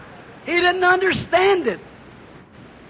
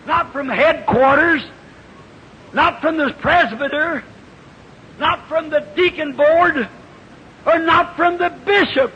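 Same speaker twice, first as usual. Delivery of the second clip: building sermon cry. Acted. Preacher testifying against denominations, building preaching cry. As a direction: build it up line by line.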